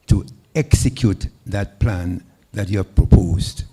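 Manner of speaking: loud, projected question; speaking up. Real, not acted. Questioner finishing the repeated question for the candidate, loudly projected. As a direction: carry it to the whole room. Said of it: "speak up".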